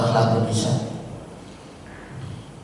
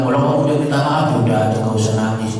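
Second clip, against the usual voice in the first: rushed wrong version; 4 semitones lower, much faster than usual. Shown as a demonstration.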